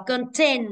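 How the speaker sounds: conTENT, weight on TENT; stress on second syllable. Shown as a demonstration. Teacher showing the class word stress, TENT stressed in content. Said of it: "từ ten âm số hai".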